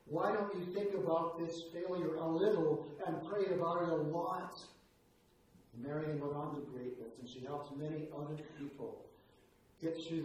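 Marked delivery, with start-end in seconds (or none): 0.0-4.5 slow, gentle encouragement from a mother; a mother's slow pep talk to her discouraged daughter. Retold or imitated. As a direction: coax her onward, word by word. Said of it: "in a little pep talk".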